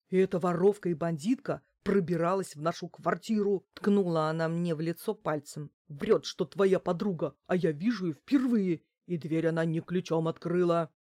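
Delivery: loud, heavy-voiced denunciation; indignant accusation. Giantess denouncing the woman as a thief, indignant. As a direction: accuse her forcefully, phrase after phrase.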